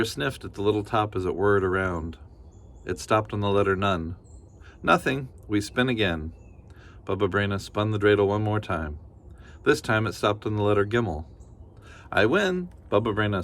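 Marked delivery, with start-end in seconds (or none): 4.8-6.3 a hint of a cheerful granny; kindly grandmother. Baba Brena thanking the bear, lightly voiced granny. 12.1-12.7 bright, much higher cry of triumph; gleeful win. Acted. Granny winning the dreidel game, gleeful. Grandmother voice.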